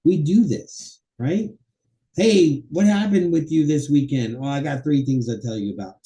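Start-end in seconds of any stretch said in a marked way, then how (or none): 2.2-6.0 acted chat. Shown as a demonstration. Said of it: "that's how we talk. We do this".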